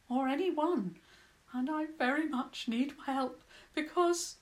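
lightly voiced mole, relieved and weary; little mole voice. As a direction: play the lost mole, grateful and tired. Mole character voice.

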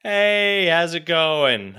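high, loud, slow mock salesman greeting; salesman imitation. Mimicking the salesman's greeting at the door, high and cheery. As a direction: stretch the cheery hello. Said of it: "he was just like".

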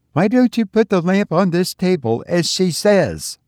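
high, fiercely insistent question; almost fierce. A narrator's reading. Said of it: "asked Caroline almost fiercely".

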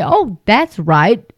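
sing-song gullible churchgoer, hammed-up; scoffing at a naive believer, high and giggly; mocking gullible believer. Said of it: "listen to that and say".

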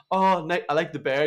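a stranger gushing over the mascot bear; stranger's compliment. Retold or imitated. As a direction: gush at the bear like a passer-by. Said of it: "they were like".

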